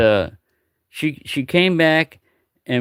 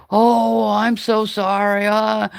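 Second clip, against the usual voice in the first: lightly voiced confused old lady; 9 semitones higher, much slower than usual. Confused old lady apologizing to her helpful neighbor, lightly voiced.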